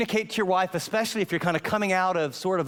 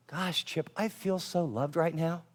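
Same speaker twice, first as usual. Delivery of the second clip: softer, gentle confession; tender, soft; 6 dB quieter than usual. Retold or imitated. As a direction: say it like a quiet thank-you. Wife's tender confession retold.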